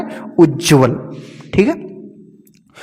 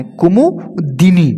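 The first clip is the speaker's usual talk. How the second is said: कुमुदिनी slowly, split as kumu, dini; broken into parts; much slower than usual. Shown as a demonstration. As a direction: pause inside कुमुदिनी to show "di". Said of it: "दापे छोटी की मात्रा".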